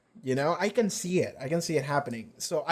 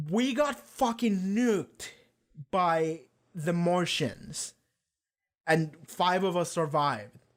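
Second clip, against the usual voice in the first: viral video message; 3 semitones higher, slower than usual. Retold or imitated. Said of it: "goes viral on the internet and just says".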